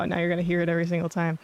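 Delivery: whistling s sounds. Real, not acted. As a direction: sibilant s that whistles. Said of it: "it just happened again".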